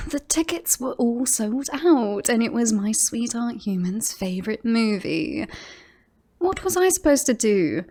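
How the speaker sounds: aggrieved and defensive; indignant self-defence. Acted. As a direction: defend yourself, pitch climbing at the end. Defends the ticket theft.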